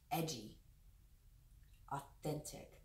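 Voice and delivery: hushed words, the second whispered; soft channeled whisper; whispered message. Shown as a demonstration. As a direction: whisper the words as they come through. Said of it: "I'm hearing those two words".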